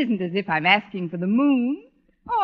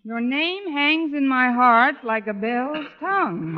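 slow reading aloud; slower than usual. Acted. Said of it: "Here's what Snodgrass brought me".

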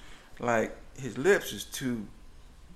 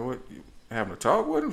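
surprised; 3 semitones higher, faster than usual. Retold or imitated. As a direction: echo it back in disbelief. Incredulous repeat of daughter.

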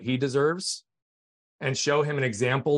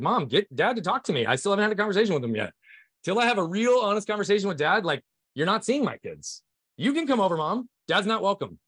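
higher-pitched, emphatic retold insistence; firm ultimatum; 6 semitones higher than usual. Son setting his mom a condition for visits, firm ultimatum. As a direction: lay down terms, pitched up, as if reliving the call.

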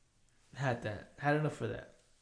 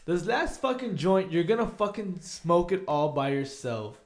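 raised, forceful challenge; insistent challenge; 4 semitones higher, 4 dB louder than usual. Retold or imitated. Friends daring the smoker to finish the last joint, insistent. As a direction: lay down the dare, easing as it goes.

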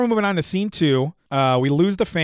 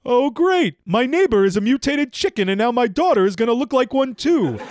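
sarcastic complaint; 8 semitones higher, 3 dB louder than usual. Acted. Al moans about the dress.

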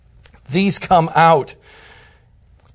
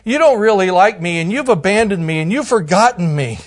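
mock whining. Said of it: "we start whining about it".

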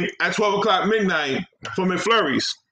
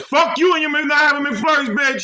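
raised, indignant retold cussing; mock angry comeback; 5 semitones higher than usual. Customer telling off the drive-through over McFlurries, mock angry. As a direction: fire back in playful outrage.

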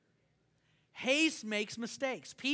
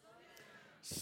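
breathy whisper of slow down; hushed slow down to the congregation; 17 dB quieter than usual. Shown as a demonstration. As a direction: breathe the words slow down without voice. Repeats phrase whispered.

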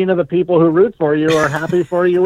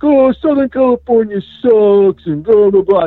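mocking Boston fan; 6 semitones higher, 4 dB louder than usual. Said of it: "be like".

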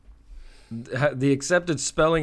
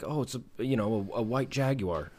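British narrator; 5 dB quieter than usual. Retold or imitated. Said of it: "that British dude".

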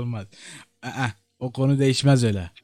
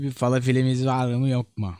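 quoting a friend; 3 semitones lower than usual. Retold or imitated. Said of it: "dedi ki".

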